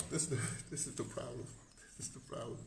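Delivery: breaking into laughs mid-phrase; chuckling through the words; laughing. Real, not acted. Laughing at his own joke to viewers. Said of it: "I gotta laugh".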